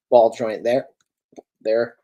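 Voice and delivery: talking through hiccups; words broken by a hiccup. Real, not acted. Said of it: "God, I'm hiccuping".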